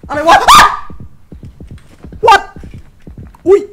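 high, loud shocked cry; startled shriek. Real, not acted. Streamer jump scared, shrieking what. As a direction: jolt as the scare hits.

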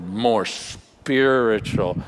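hammed-up dismissive believer, fast then drawn out; smug churchgoer. Preacher mocking a complacent Christian, slow drawn-out smugness. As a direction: brush it off quickly, then savour the spiritual words slowly. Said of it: "And you go".

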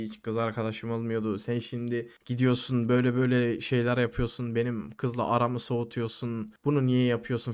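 low, subdued imitation of a wounded friend; playing emotional. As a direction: retell his plea with mild self-pity. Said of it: "falan duygusal oynuyor". (duygu sömürüsü yapar gibi, alçak sesle)

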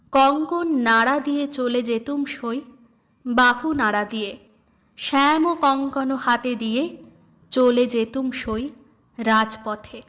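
slow, lilting recitation of a devotional song; recited song verse. Acted. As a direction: read the hymn as gentle verse. Song lyrics recited by reader.

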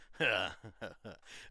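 low, delighted chuckle. Acted. Guest gushing over the movie theater, low chuckle. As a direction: chuckle deep down, pleased.

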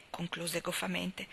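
ordinary delivery

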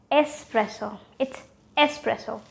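"espresso" as es-PRESS-o; correct s sound. Shown as a demonstration. Teacher correcting viewers, correct s sound. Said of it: "just remove that X".

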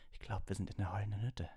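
frightened whisper. A narrator's reading. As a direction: whisper it in fear. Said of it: "flüsterte sie".

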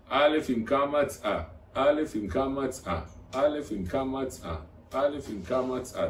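slow, repetitive alef-bet chant; monotonous teacher's recitation, stretched out; rote alphabet drill. Shown as a demonstration. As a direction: drill it over and over in the same slow cadence. Repeats the alphabet drill over and over.

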